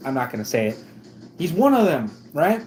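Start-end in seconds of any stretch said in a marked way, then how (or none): 1.4-2.6 high sneering racist voice; mocking the racist. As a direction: squeal it high like the bigot. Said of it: "And he goes".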